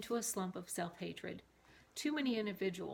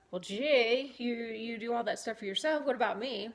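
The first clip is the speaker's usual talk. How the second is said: whiny complaint; 3 semitones higher, 6 dB louder than usual. Retold or imitated. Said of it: "I was like".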